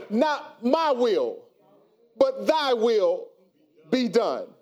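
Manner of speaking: slow, drawn-out prayerful words; slow solemn quote. Shown as a demonstration. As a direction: pray it slowly like Jesus surrendering. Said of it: "Come on, y'all".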